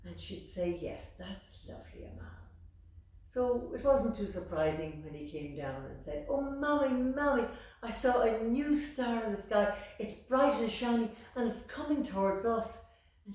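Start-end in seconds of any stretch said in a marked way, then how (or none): 0.8-2.4 distracted murmur. Mother answering absently. 6.3-12.8 put-on high, loud, eager little boy; bursting to tell his mammy; excited child. Little Amal excitedly telling his mammy about the moon.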